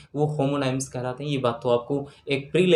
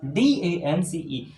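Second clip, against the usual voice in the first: slow spelling; much slower than usual. Shown as a demonstration. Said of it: "teacher spells out letters".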